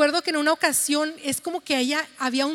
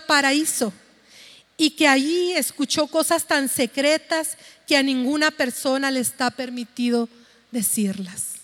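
scripture reading; 3 dB louder than usual. Real, not acted. Reads Scripture passage aloud.

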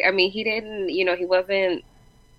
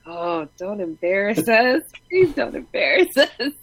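pleading through laughter; 2 semitones higher than usual. Retold or imitated. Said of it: "looking at him like".

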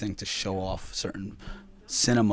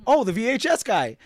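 teasing ladies' greeting; 12 semitones higher, 7 dB louder than usual. Retold or imitated.

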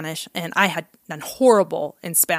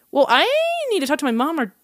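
nervous; 6 semitones higher than usual. Retold or imitated. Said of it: "I got really nervous".

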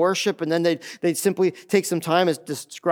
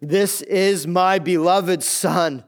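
slow, solemn declaration as God's voice; much slower than usual. Retold or imitated. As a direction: proclaim it from heaven, word by word. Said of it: "Look what the voice says".

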